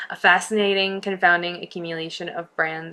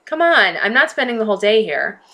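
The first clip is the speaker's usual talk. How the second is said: sharp impatient complaint; 3 semitones higher, 4 dB louder than usual. Acted. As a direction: snap it out impatiently. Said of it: "said sharply".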